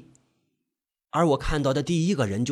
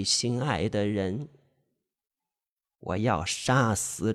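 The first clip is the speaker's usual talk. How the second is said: put-on vengeful old woman; 3 semitones lower, 4 dB quieter, slower than usual.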